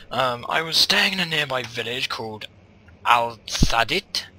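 grand storyteller's reading of a found note; dramatic reading. Acted. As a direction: read it like an old explorer's diary. Reads a diary note aloud.

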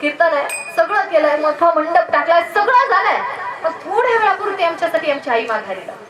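an earnest acted plea to God; pleading with God. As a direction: call out to God, then implore. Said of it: "माझ्या देवाला विनवणी करावी".

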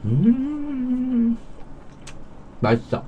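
talking while chewing; muffled through food; mouth full of food. Real, not acted. Seen 3: Face clear; cheeks full, lips pursed chewing, chopsticks in hand throughout.

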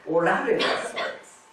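おられた with ら pressed hard; stress on ら. Shown as a demonstration. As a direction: lean on the ら in おられた. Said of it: "この「ら」に黒丸".

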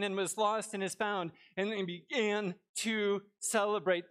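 steady, measured scripture read. Acted. Preacher reading Luke to the congregation, measured. Reads scripture passage aloud.

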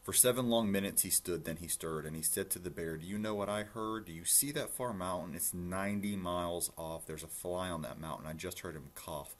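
lilting rhymed read-aloud; story narration. A narrator's reading. Reading a rhyming rabbit story to listeners, storytelling. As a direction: read it out clearly in bouncy verse.

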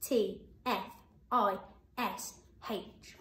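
C A T F I S H, slow, letter by letter; spelling out letters. Shown as a demonstration. Teacher spells catfish for children to check. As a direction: spell it out slowly.

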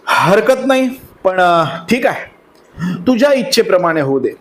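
helpless. Acted. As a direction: give in helplessly. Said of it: "अगतिकपणे Yudhishthir म्हणाला".

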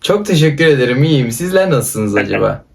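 playfully formal Istanbul Turkish; mock Istanbul accent. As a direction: answer in over-courteous Istanbul speech. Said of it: "İstanbul Türkçesi diyorsun". (şakayla kibar İstanbul Türkçesi)

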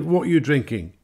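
high, pushy barroom question; brash chat-up. Acted. Englishman chats up ladies.

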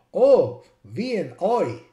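put-on English driver's accent, exclaimed; imitated English driver. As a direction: mimic an English cabbie saying V and A as "vee-an-eye". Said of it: "and he said".

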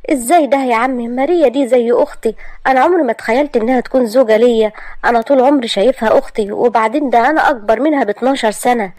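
heated refusal; upset young man. Acted. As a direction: argue back at the uncle, hurt and stunned. Asad refuses the marriage.

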